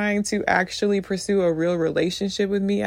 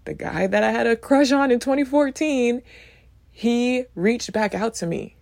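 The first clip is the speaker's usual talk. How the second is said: excited; 5 semitones higher than usual. Retold or imitated. Retelling the guy's surprise return.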